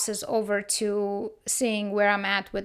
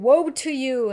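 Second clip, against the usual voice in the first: scornful woe; 3 semitones higher, 6 dB louder than usual. Retold or imitated. Reading Jesus denouncing Pharisees.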